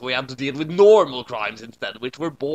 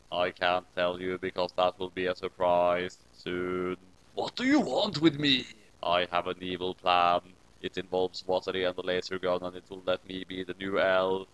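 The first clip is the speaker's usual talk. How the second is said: mysterious ghost voice; 8 semitones lower, 5 dB quieter than usual. Acted. Ghost revealing an evil plan in the attic, low and soft. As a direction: murmur it like a scheming ghost. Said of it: "A mysterious voice".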